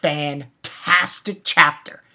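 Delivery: slow, drawn-out amazement; slow, stunned praise of the episode; awestruck. Retold or imitated. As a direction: savour each word in awe. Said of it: "And I was just like".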